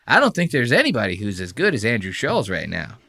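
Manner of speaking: high, fast, eager flattery; gushing fan. Retold or imitated. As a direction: rush the praise like a suck-up. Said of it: "He goes".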